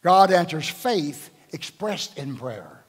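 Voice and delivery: slow, deliberate, God first and heavy; slow emphatic statement. Acted. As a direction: lay each word down slowly. Preacher stating key principle slowly.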